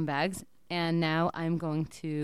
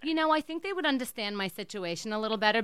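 put-on Jewish accent. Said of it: "I'm gonna be in an accent".

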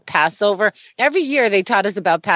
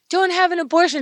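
mock preachy warning; 12 semitones higher, faster than usual. Mocking preachy anti-abortion message.

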